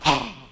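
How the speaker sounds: short mock gasp of an eager baby; imitated baby gasp. Father mimics his baby son seeing the bottle, imitated gasp. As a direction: imitate a baby's excited gasp. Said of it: "y él rápido hacía".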